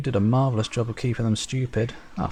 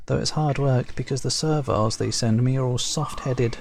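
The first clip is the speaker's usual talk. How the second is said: higher, brusque and impatient; curt overseer Zulak; 5 semitones higher than usual. Acted. Zulak telling the Shaper she has work to do, brusque. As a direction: get rid of the visitor fast.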